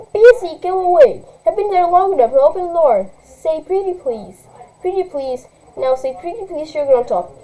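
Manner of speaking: put-on high, sing-song kid voice; teasing little girl. Little sister teasing through the door, high and childish. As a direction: tease your big sister.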